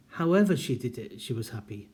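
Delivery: "However" said as one unit, falling, then pause; intonation of non-restrictive however. Shown as a demonstration. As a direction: stress "However" and drop into "she was happy". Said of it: "You can even hear the difference in intonation".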